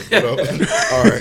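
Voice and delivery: high, laughing. Real, not acted. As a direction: giggle into the words. Laughing resuming segment.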